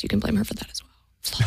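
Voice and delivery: whispering. Acted. Joking aside about a singer.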